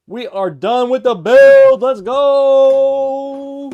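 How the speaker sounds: loud, slow triumphant cheer; excited. Real, not acted. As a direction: shout it out in triumph. Celebrating finished build.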